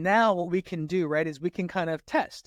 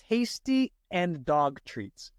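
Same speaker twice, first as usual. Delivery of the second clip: slow read-aloud test; slower than usual. Shown as a demonstration. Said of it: "read it out loud and slowly".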